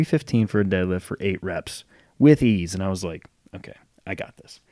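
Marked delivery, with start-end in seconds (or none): 3.5-4.6 breathy unvoiced whisper to himself; inner whisper. To himself before the deadlift, a hushed whisper. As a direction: whisper it as a private thought.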